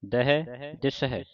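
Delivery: scripture recitation. Acted. Teacher reciting scripture to the sangat in a measured voice. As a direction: recite each line carefully for the class. Recites Gurbani verses with corrections.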